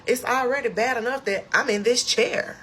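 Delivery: high, fast indignant rant; reenacted freak-out, pitch held way up; flipping out. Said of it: "I was flipping out".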